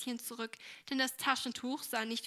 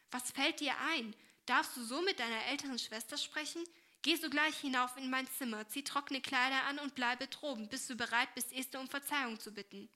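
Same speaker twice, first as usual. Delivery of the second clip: stern; 2 semitones higher than usual. Acted. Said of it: "rief diese ernst".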